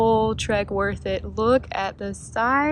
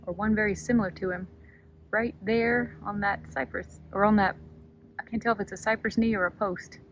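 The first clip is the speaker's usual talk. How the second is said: hushed; 5 dB quieter than usual. Real, not acted. Creeping up on a big bird in the kayak, hushed. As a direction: keep it down so the bird stays put.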